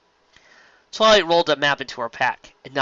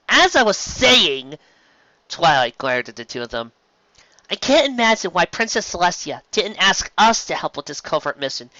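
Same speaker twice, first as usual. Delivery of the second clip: higher, louder firm leader voice; Twilight's voice; 5 semitones higher, 5 dB louder than usual. Acted. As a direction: voice Twilight taking charge.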